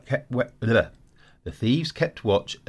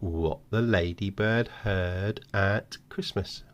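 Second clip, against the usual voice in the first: slow, hushed reveal; slower than usual. Shown as a demonstration. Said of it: "and now you've got".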